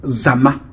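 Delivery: Zama with "m" alone, no "b"; prononciation eton. Shown as a demonstration. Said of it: "Les Etons". (prononciation eton de Zama, sans « b »)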